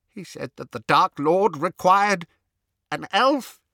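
loud, high anguished elf voice breaking out; distressed house-elf. A narrator's reading. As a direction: burst out with the terrible memory. Elf reaches the painful memory.

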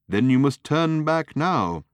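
slow, loud, high-pitched little lady being stern; severe. A narrator's reading. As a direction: lay down the law, high and slow. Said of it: "said the little lady severely".

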